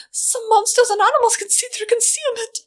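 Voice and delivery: a mild high whimper; timid, frightened little voice; a scared filly warning her friends. Acted. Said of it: "Wire whimpered".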